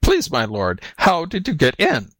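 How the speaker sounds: timid question climbing high; lightly voiced bewildered jackal; meek jackal. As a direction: ask humbly in feigned innocence. Jackal feigns timid puzzlement.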